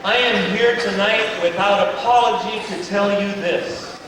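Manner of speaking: slow, grave preaching voice; deadpan earnest preacher, slow; mock solemn sermon. Comic preacher addresses the crowd with mock gravity.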